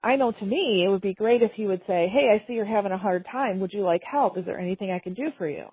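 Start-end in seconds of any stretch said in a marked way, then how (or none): 2.1-5.7 gentle, open offer of help; caring helper offering support; kind offer. Shown as a demonstration. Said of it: "if you ask it like that".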